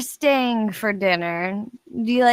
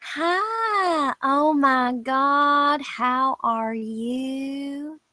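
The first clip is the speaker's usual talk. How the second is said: gushing greeting; 3 semitones higher, much slower than usual. Acted. Gloria gushes at Belle's friend.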